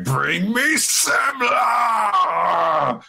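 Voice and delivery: put-on child cries out for food, loud and tearful; crying shout. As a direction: wail it as a sobbing yell. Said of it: "she's like".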